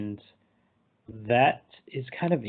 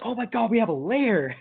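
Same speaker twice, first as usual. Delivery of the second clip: high-pitched, thrilled imitation; hammed-up, high delighted outburst; mock excitement; 9 semitones higher than usual. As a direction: squeal it like an overexcited friend. Retold Freddy's thrilled reaction to lair.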